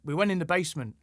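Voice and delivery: light mock Geordie accent; a hint of imitated Geordie. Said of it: "in your accent".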